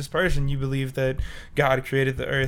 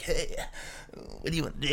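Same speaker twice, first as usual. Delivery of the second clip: softer, coy flirty voice; 12 dB quieter, much faster than usual.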